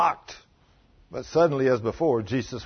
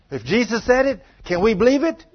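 rousing challenge; 10 semitones higher, 7 dB louder than usual. Real, not acted. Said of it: "preacher drives home the point".

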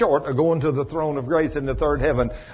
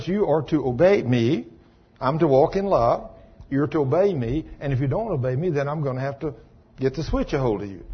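put-on parent to child; 2 semitones lower, 4 dB quieter than usual. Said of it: "we are to tell our children".

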